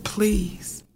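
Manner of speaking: hushed, pleading whisper to the gunman; frightened whispered plea to a gunman at the door; quiet plea. Retold or imitated. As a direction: beg softly under your breath. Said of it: "And I said".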